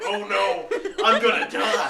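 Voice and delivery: mock panic. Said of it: "I'm like".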